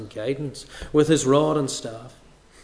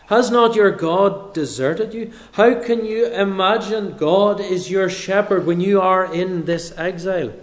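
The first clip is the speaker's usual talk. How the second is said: challenging skeptic; 3 semitones higher, 4 dB louder than usual. Retold or imitated. An onlooker challenges the exiled king, pointed and louder. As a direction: press the dethroned king hard. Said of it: "that person saying".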